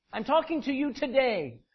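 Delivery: "today" landed hard as the end of the statement; mock emphatic TODAY. Preacher mocking how their Bible reads, TODAY stressed at the end. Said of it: "this is how they say it".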